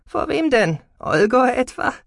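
high, pointed, indignant questions; defiant teenage retort; scornful challenge. A narrator's reading. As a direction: throw it back at mother, pitched high. Daughter scoffs at mother's protectiveness.

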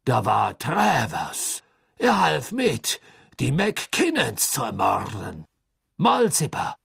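high, loud, slow and nervous; a desperate prisoner pleading; anxious. A narrator's reading. Karkaroff names names under pressure.

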